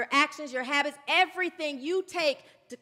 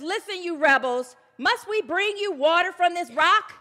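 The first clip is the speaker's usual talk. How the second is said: loud, higher indignant rebuke; indignant Moses; 5 semitones higher, 8 dB louder than usual. Retold or imitated. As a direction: snap at the rebels with barely held anger. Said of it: "he's all indignant now".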